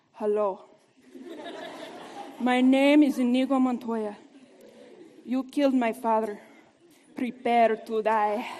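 a hint of the vengeful duelist, gathering resolve; Inigo Montoya movie line. Speaker quotes Inigo facing his father's killer, lightly voiced vow. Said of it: "He continuously says to his adversary".

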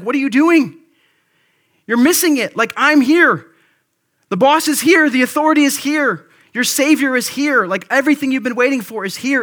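Jesus shouting you're missing it; exasperated Jesus. Acted. Jesus confronting the temple crowd, loud exasperated call.

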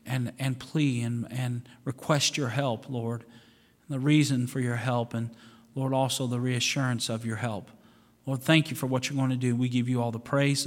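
low, steady pastoral prayer voice; closing prayer. Acted. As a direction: pray over the congregation humbly.

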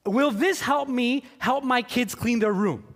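puzzled Bible reader. Retold or imitated. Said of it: "I read the Bible and I'm like".

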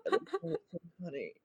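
laughing through the words; breaking up with laughter; trying not to laugh. Real, not acted. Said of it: "I'm sorry, I'm losing it".

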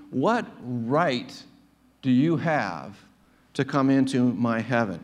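"right" set apart and drawn out, each phrase weighted; stress on "right". Retold or imitated. God questioning the sinner at judgment, stressing "right". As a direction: lean on the word "right", pausing between phrases. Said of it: "notice the emphasis on the word right".

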